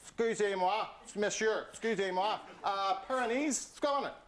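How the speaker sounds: mild put-on French accent; lightly voiced lost French tourist. Lost French tourist asks a Tyrone local for directions, mild French accent. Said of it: "a guy standing there".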